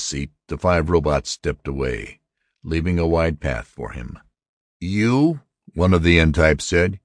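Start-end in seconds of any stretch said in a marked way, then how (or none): 4.8-5.4 high, questioning robot voice; incredulous robot. A narrator's reading. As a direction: question him as a doubtful robot. Robot questions the new human member.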